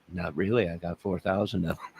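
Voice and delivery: playing himself as suspect, answering softly. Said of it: "I'm gonna interview myself".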